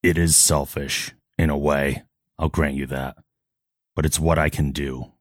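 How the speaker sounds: lightly voiced solemn hero; measured, earnest confession in dramatic pauses; Batman. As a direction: play the grave vigilante with restraint. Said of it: "I don't get to voice act Batman".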